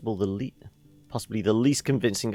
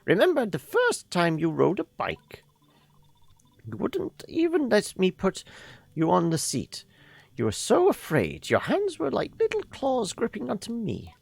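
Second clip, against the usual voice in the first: put-on old lady voice. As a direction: talk like a kindly grandmother. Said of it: "So we should do the old lady voice".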